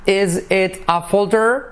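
slow, high rising "folder"; high question rise on "folder"; question tune. Shown as a demonstration. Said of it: "hacer es una pregunta".

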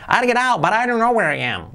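put-on small high-pitched child's voice; Lisa's little voice. Voice from down below in the crowd, little voice. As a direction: pipe it up high, like a little girl. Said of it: "Eso dice allí con su vocecilla".

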